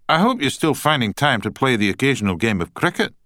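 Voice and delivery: lightly voiced Scottish accent; chatty Scotsman, hearty and upbeat. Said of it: "in a strong Scottish accent".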